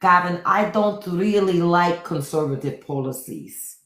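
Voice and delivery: a hint of a gushing Melania; smitten Melania. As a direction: play her as dreamily infatuated. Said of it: "She's like".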